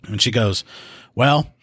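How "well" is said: higher-pitched retold grievance; upset caller. Upset caller blaming the man in her attic, mildly aggrieved. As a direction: lightly imitate a caller venting her complaint. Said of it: "she's upset because her electric bill".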